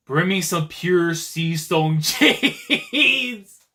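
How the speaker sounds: laughing read. Real, not acted. Reading line while laughing.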